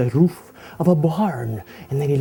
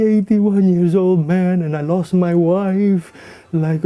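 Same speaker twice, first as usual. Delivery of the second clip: louder, slow mock blubbering; weepy old man; 4 semitones higher, 4 dB louder, slower than usual. Old man telling the policeman his story, mock weepy. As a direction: sob it out, hammed up.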